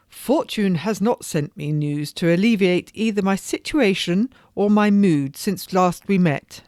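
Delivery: lightly voiced noblewoman, rueful; a hint of a lady lamenting; weary society lady. Lady telling her friend of her troubles, rueful.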